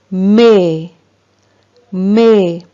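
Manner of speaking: "mais" ending on an open, held vowel, no S sound; silent final S. Shown as a demonstration. Teacher models a text word for learners, "mais" slowly with mute S. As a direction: draw out "mais" and leave its S silent. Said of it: "le S est une lettre muette".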